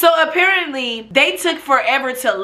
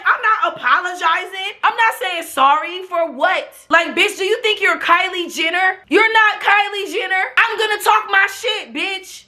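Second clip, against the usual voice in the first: defiant retold rant; 6 semitones higher than usual.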